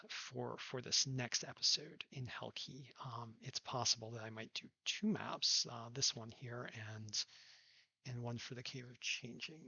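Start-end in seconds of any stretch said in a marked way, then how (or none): 5.7-9.6 talking into a hand; muffled behind a hand; hand over mouth. Real, not acted. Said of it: "here I am talking into my hand".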